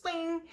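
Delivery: high little ding; imitated ding. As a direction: make a small chime sound. Imitates spatula popping out.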